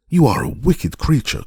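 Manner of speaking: put-on indignant child crying out; angry cry. A narrator's reading. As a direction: cry out at the witch in outrage. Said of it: "cried Dorothy".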